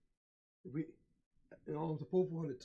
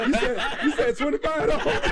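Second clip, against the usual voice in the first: mock surprise; 8 semitones higher, 8 dB louder than usual. Acting shocked at the price.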